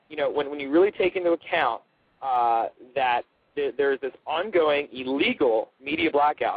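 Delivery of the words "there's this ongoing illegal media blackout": illegal pressed hard and drawn out slowly; slow, emphatic illegal, like a warning; stress on ILLEGAL. Real, not acted. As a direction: lean on the word illegal, slow and firm. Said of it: "And I stress the word illegal".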